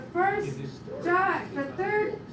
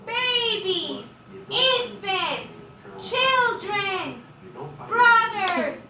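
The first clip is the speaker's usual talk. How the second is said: building, loud rallying cry; rally the whole crowd, slowly; roaring rallying speech; 4 dB louder, much slower than usual. Pretend. Rousing list of everyone.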